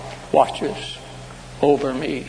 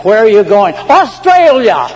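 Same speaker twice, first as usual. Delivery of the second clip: loud, high comic exclamation; acted shout; 6 semitones higher, 10 dB louder than usual. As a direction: call it out, soaring on the destination. Acted exchange boarding bus to flee.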